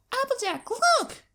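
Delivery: high, loud calling filly; excited filly yell. Acted. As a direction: call out to big sister, thrilled. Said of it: "she yells".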